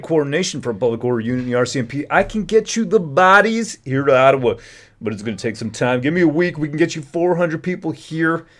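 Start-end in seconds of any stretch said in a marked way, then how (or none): 2.1-8.5 higher, louder quoted officer; a touch of a confident officer promising help; voicing Darwin Tetro. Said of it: "this is Darwin Tetro talking now".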